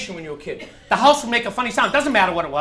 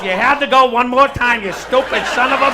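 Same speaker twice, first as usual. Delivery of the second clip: put-on drunk muttering; 4 dB louder than usual. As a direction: curse yourself under your breath like a bum in an alley. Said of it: "muttering to myself".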